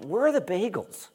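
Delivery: high, laughing whiny question; mock complainer's whine, pitched high and laughing; laughing mock complaint.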